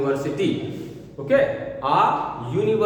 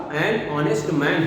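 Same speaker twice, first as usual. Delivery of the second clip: slow demo; 2 semitones lower, much slower than usual. Shown as a demonstration. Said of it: "क्या होगा".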